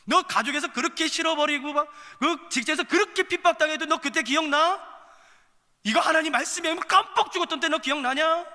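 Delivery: high, loud pleading questions; impassioned appeal. Acted. God urgently asks if they remember.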